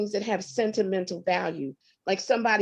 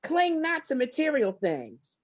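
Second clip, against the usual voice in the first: voice of God; 5 semitones higher than usual. Retold or imitated. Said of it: "That's what I heard in my spirit".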